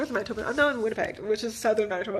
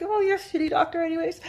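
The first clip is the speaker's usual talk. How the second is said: retorting; 7 semitones higher than usual. Retold or imitated. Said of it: "I'm like".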